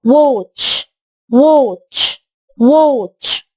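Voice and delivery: watch with a rounded wo; pronunciation demo. Shown as a demonstration. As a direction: model watch clearly. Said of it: "هنخلي صوت وو". (watch بصوت وو)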